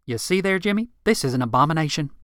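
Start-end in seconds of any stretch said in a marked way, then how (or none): 0.0-0.9 scandalized. Acted. Rick rails at Marilyn to Jimmy.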